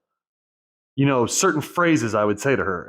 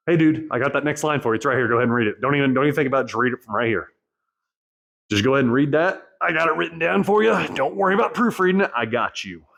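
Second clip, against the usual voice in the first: mock pushy inner voice, pitch climbing midway, then settling; lightly voiced coaxing inner buddy, rising then dropping back; wheedling inner voice; faster than usual. His brain coaxing him to read the next line, mock wheedling voice. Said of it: "That's that bitch voice".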